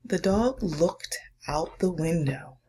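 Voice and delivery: put-on hushed, slowed reading for children; story reading. Reads picture book aloud.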